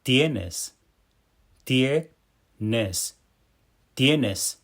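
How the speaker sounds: clear, careful Spanish tienes; tienes, tie stressed, es ending; model Spanish pronunciation. Shown as a demonstration. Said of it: "Listen how to say "you have".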